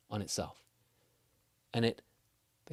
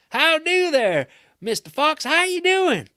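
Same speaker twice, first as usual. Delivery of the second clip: high, loud Texas drawl greeting; hearty Texas howdy; a cowboy from Texas hollering hello; Texas accent; 14 dB louder, slower than usual. Acted. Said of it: "decided to not do his Texas accent anymore".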